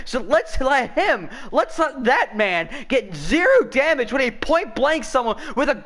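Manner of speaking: sarcastic rant. Real, not acted. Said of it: "Sorry, I didn't mean to yell".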